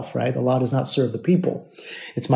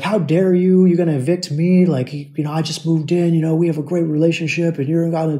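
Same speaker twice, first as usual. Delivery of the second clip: mock indignant yell, higher pitch; retold yelling; 4 semitones higher than usual. Evicted tenant yelling at his landlord, mock yell. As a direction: imitate an outraged tenant's rant, partly raised voice. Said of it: "he's yelling at me".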